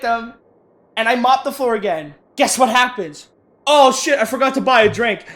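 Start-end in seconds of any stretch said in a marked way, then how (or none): 3.7-5.2 louder, raised customer voice; mock returning customer. Imitating the customer coming back for a drink, mock sudden realization. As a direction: blurt it like a sudden realization, hammed up.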